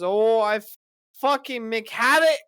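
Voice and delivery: high, loud cursing rant; mock angry coworker. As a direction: imitate a workmate blowing up. Acting out furious foul-mouthed coworker.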